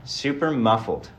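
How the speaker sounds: muffled, like in a tunnel; muffled mic. Real, not acted. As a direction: sound like you're in a cave. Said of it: "in a tunnel in a cave somewhere".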